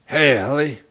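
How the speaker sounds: a lightly voiced high little gnome voice; slightly high-pitched voice. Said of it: "said a high-pitched voice from behind me".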